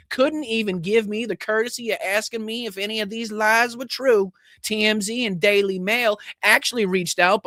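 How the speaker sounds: high, sneering mock of an angry politician; mocking Greene voice. Host reading Greene's furious tweet aloud, mocking voice. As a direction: read her tweet as a shrill caricature.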